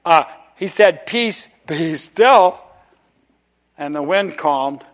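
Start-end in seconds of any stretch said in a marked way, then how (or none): 1.0-2.6 slow, calm Peace, be still; gentle slow command. Acted. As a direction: speak stillness over the storm. Quoting Jesus calming storm.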